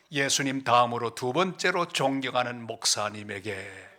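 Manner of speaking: slow, low, drawn-out address; reverent letter reading. Retold or imitated. Missionary writing to respected pastor, slow reverent reading. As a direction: stretch out the letter's honorific greeting.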